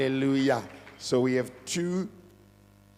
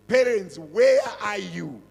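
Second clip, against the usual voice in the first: calling out; 5 semitones higher, 6 dB louder than usual. Real, not acted. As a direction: summon the absent parents. Pastor calls out to parents.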